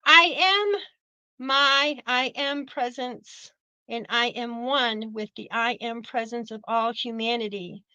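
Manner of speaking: a measured devotional decree; spoken decree. Acted. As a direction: intone it like a prayer. Reads violet flame decree.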